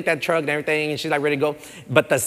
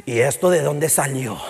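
Spanish question. Retold or imitated. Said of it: "I ask what all Hispanics ask".

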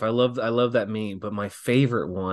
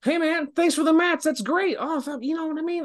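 high, chirpy friendly thanks; lightly mocking impression of a peppy colleague; imitating Sami Zayn. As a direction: play a cheerful guy thanking you after a match. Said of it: "Sami Zayn going".

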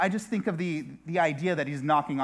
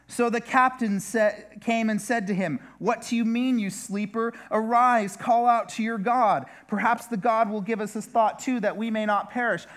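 raised, urgent reading of the captain's words; captain's rebuke; 6 semitones higher than usual. Acted. Preacher voicing the captain rousing Jonah, urgent. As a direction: rouse the sleeper, read it with urgency.

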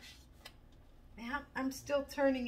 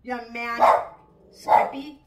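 loud, raised reprimand to a pet; real sharp-volume telling-off; scolding the dog; 15 dB louder, slower than usual. Real, not acted. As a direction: call the dog sternly to attention.

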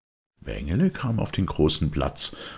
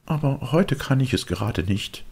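mocking; 11 semitones higher than usual. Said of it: "spottete ihn dieser aus".

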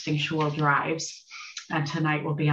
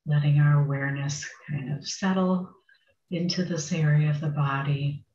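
unhurried meditation guidance with long pauses; guided meditation. Acted. Meditation teacher settling a group into sitting, guided meditation. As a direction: guide them gently, phrase by phrase, leaving space.

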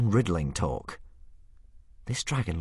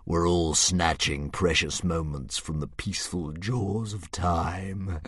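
cheerful philosophising dragon. Acted. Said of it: "said the dragon cheerfully".

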